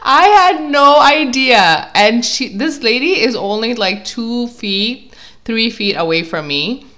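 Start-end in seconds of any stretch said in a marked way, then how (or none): 0.1-1.9 high, loud and drawn out; emphatic exclamation. Real, not acted. Telling how the lady stumped me, loud high emphatic exclamation. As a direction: stretch it out in amused helplessness. Exclaims her own confusion while laughing.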